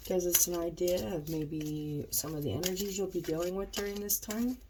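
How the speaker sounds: stuffed-up nasal voice; talking through a blocked nose. Real, not acted. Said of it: "I'm all stuffed up".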